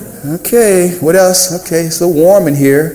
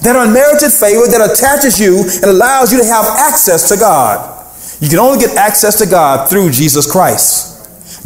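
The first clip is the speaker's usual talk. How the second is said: higher-pitched sermon delivery, driving each point home; impassioned preaching; 5 semitones higher than usual. Real, not acted. Preacher tells congregation about unmerited favor, impassioned preaching. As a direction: preach it in raised, ringing phrases.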